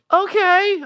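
high-pitched, puzzled okay; baffled okay. Retold or imitated. Reacting to a strange brush-off, baffled. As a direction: let the pitch leap in bafflement. Retold baffled reply to a remark.

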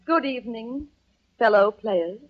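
soft, halting stage dignity; hushed, stately pronouncement; grand entrance. Acted. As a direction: receive them like a tragic star. Actress's grand entrance from dressing room.

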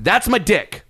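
retold indignant yell, pitched high. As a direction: call it out, high and protesting. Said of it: "where I just yelled out".

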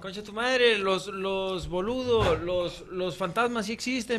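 loud mock Argentine accent; hammed-up Argentine accent. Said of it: "¿cómo hablan los argentinos?".

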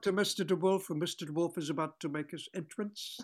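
haughty third-person warning, lightly voiced; grand theatrical star voice, mildly done; imitating Billy DeWolf. Actor repeating DeWolf's haughty warning to the host. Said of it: "that's exactly the way he talks".

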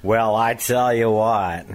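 John Wayne impression. The speaker trying his John Wayne for friends. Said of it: "Try John Wayne again, Steve".

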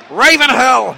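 half-volume replay of the goal call; mild goal yell. Retold or imitated. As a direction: call the scorer's name, toned down. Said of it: "'cause I did proper commentary".

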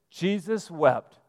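Jesus wept said slowly, each word weighted; slow, weighty quote. Shown as a demonstration. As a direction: let Jesus wept land slowly and solemnly. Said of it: "That is your shortest Bible verse".

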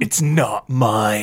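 slow deadpan line; movie character quote. Retold or imitated. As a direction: drag out the denial. Quoting movie line reply.

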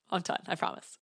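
soft breathy giggle under the breath; whispered laugh. Real, not acted. Promising viewers she's finished ranting, whispering through a laugh. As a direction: laugh it away in a whisper, sheepish. Laughing off her own rant.

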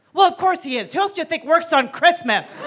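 lightly voiced mom stating the obvious; matter-of-fact mother. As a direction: toss it back as self-evident. Mother's unfazed punchline.

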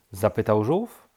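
ordinary delivery, nothing marked

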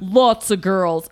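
slow, drawn-out attempt at Aussie; failed Australian accent. Host voices the flower guy, badly faked Australian accent. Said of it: "I can't do an Australian accent".

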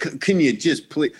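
rising, incredulous mock rant; rising disbelief at noisy concertgoers; exasperated rant at talkers. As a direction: scold the chatty fans in disbelief. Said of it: "I'm like".

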